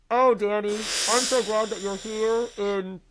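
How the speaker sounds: slow, stilted dubbed-dialogue voice; mock bad-movie line reading, very slow; badly overdubbed actress. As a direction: draw the words out like mismatched movie dubbing. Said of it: "they overdubbed all the audio".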